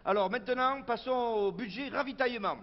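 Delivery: proud, emphatic item-by-item announcement; meeting budget announcement. Acted. Local official presenting the supplies budget to activists, formal announcing. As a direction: announce it ceremoniously to the assembly.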